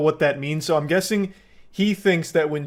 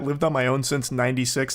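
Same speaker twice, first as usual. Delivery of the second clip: "Lived on my own since ninety-six" said lower and softer, flat mock; mocking deadpan quote; 4 semitones lower, 4 dB quieter than usual. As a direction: savor it, low and dry, mocking him. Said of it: "I love the way he says that".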